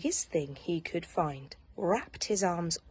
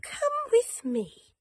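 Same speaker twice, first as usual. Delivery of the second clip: kindly. Acted. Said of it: "said the rabbit kindly".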